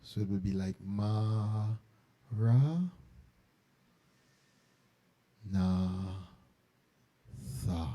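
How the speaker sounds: Ma, Ra, Na, Tha with long pauses between them; spaced syllables. Shown as a demonstration. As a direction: let each syllable of Ma Ra Na Tha hang in the silence. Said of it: "we break it so that two syllables".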